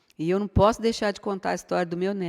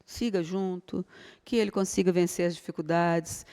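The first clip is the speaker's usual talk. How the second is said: soft prayer; 5 dB quieter than usual. Shown as a demonstration. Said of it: "Fala assim".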